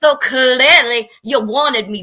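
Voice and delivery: loud, heated cussing out of a rival; rising to a shouting insult; furious yelling. Real, not acted. Furious woman yelling back at rival on stream.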